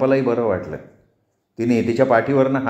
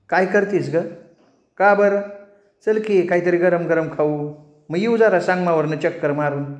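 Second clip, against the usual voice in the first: voiced higher, chatty and inviting; lightly higher-voiced Champa chatting with Rani; friendly village woman; 4 semitones higher than usual. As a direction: coax your friend out for a snack.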